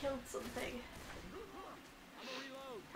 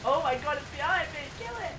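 panicking gamer; 3 semitones higher, 4 dB louder than usual. Real, not acted. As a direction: yelp it out in panic. Enemy behind player in game.

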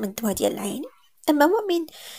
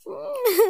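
short high gloating laugh; 14 semitones higher than usual. Acted. Aunt laughing in gloating triumph at the niece. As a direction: relish her downfall in one laugh. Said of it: "بديك الشمتة".

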